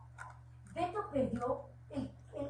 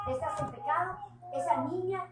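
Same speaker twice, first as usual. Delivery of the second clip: a louder, higher scolding mother; 6 semitones higher, 4 dB louder than usual. Retold or imitated. Mother scolding about the sin. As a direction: mimic the mother scolding her sister. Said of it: "mi mamá".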